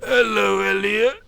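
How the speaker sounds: high, monotone drawn-out greeting; addled old teacher. Acted. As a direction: chant it blankly on one high note. Addled old teacher, only stock phrase.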